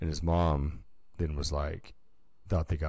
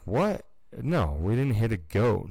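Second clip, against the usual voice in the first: shocked denial; 4 semitones higher than usual. Retold or imitated. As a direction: act stunned at the accusation. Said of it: "he's like".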